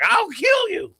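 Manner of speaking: high-pitched mock yell of fury; loud, hammed-up retold threat; imitated scream. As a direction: scream it like an old coach blowing up. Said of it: "they were screaming at each other".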